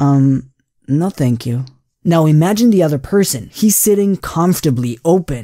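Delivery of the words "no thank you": subdued, very low voice. A man in a coffee shop answers the waitress, in a very low voice. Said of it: "with a very low voice".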